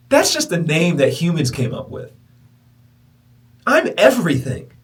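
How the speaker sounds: high, slow, spacious otherworldly voice; voice of the universe. Retold or imitated. The universe answers him, slow high ethereal voice. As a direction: speak slowly as the vast universe.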